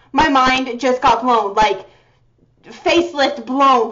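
My mind just got blown, said slowly; slowed, stunned. Real, not acted. Fan restating her shock to viewers, slow and stunned.

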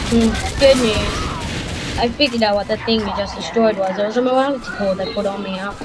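lightly voiced gloating villain AI; GLaDOS without morality core. Shown as a demonstration. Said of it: "there's the No Morality Core".

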